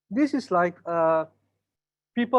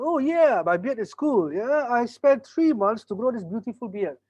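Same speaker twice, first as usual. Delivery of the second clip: bearded Bob bragging higher and slower; proud customer Bob; 3 semitones higher than usual. Acted. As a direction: show off the beard, pleased. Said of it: "Bob said".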